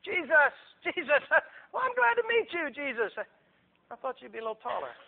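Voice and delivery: high, put-on greeting; effusive Herod. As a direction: greet a celebrity with showy delight. Herod greeting celebrity Jesus.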